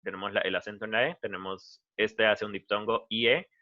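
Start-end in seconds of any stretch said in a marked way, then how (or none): none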